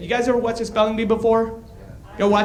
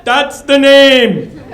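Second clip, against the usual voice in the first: high, loud thrilled father; the dad's eureka moment, hammed up; excited dad; 6 semitones higher, 6 dB louder, slower than usual. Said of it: "the dad is just, like, excited".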